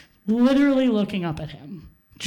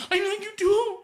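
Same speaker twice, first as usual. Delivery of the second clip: put-on the boy yelling back defensively; shouting back; 10 semitones higher than usual. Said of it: "screaming at each other".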